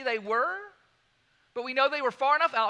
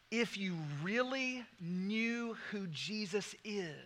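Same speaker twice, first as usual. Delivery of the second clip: whisper; 5 semitones lower, 11 dB quieter than usual. Real, not acted. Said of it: "sermon climax, whispered".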